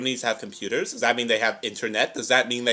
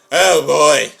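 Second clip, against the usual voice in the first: excited reaction; 3 semitones higher, 10 dB louder than usual. Real, not acted. Reacts as episode ends.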